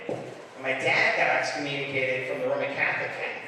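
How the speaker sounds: ordinary talk, nothing marked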